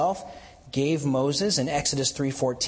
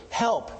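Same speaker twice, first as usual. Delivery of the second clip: "help" lifted higher and falling; stressed help; 6 semitones higher than usual. Shown as a demonstration. Preacher pointing out the key word, stressed. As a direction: lean on "help". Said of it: "an emphasis on this word".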